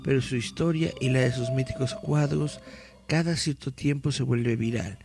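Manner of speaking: dramatic read-aloud of a mystery article. Acted. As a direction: read it like a creepy news report.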